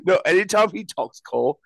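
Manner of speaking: put-on British accent. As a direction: speak in a mock British accent. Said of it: "what kind of accent you have".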